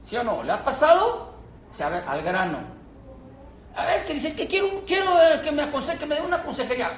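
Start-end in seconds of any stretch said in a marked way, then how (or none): 3.8-6.9 hesitant asker. Pretend. Mimicking someone seeking counsel.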